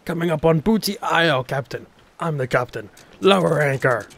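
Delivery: loud pirate captain call. Acted. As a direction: bellow it like a ship captain. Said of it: "how much you hated my pirate voice".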